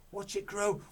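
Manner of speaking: Mister Cranky starts to cheer; eager cry. Acted. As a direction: build the excitement. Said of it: "cried Mister Cranky".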